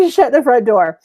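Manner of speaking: laughing mock disbelief. Coach acting a client stunned by the value, laughing mock disbelief. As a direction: burst out laughing, then exclaim in playful disbelief.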